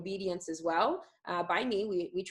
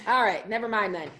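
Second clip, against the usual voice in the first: laughing; 3 semitones higher, 6 dB louder than usual. Real, not acted. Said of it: "laugh heard".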